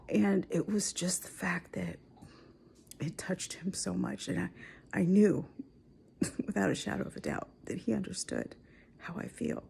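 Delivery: soft, teary, almost whispered; choked up. Real, not acted. Wife retelling a moving moment with her husband, choked up. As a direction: push the words out past tears. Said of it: "So I've already cried".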